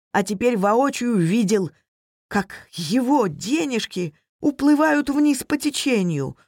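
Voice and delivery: usual speaking voice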